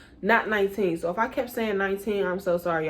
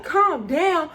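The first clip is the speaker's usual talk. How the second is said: indignant echo; 8 semitones higher, 3 dB louder than usual. Retold or imitated. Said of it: "And I'm like".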